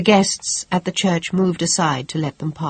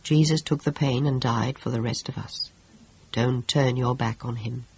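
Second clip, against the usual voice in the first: soft, lower priestly voice; gently; 4 semitones lower, 5 dB quieter than usual. Acted. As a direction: soothe her gently. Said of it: "he said gently".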